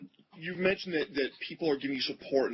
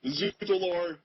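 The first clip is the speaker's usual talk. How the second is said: mock French accent; 4 semitones higher, much slower than usual. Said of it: "from my fourth grade French education".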